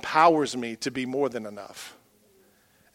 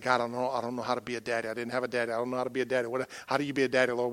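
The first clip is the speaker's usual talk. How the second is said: retold panic; 2 semitones lower, 4 dB quieter, much faster than usual. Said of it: "freaking out".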